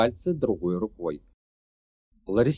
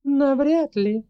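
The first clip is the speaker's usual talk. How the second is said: hoarse rasp; 6 dB louder, slower than usual. Acted. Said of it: "прохрипела драконица".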